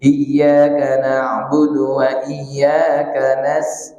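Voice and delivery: slow recitation cut off mid-word; halting Quranic recitation, chopped off; broken-off recitation. Shown as a demonstration. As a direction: stop abruptly on nas-, the wrong way. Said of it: "jangan diputus".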